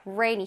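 "Rainy" with the tongue pulled back for R; English R in rainy. Shown as a demonstration. Teacher modelling rainy for children, tongue-back R. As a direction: begin "Rainy" on a true R, not L. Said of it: "혓바닥이 뒤에 있어야겠지".

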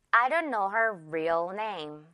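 slow model sentence, light ending on "real"; careful "real". Shown as a demonstration. Teacher modelling a sentence, "real" with a reduced ending. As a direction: say it slowly, easing off the end of "real". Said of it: "real 발음 주의하면서".

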